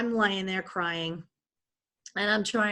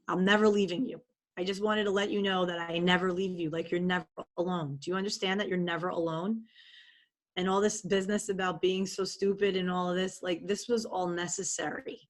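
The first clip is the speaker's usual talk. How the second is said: reassuring inner voice. Retold or imitated. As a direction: comfort her like a loving guardian. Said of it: "And she says, "Lise".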